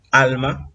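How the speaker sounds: "Alma" stressed on AL; stress on penultimate syllable. Shown as a demonstration. Teacher gives an example of grave words, penultimate stress. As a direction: lean on the first syllable of "Alma". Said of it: "presentan acento en la penúltima sílaba".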